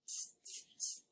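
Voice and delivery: whispered teasing tss tss; monkeys' tss. Acted. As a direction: hiss like cheeky monkeys. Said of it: "the monkeys ... said".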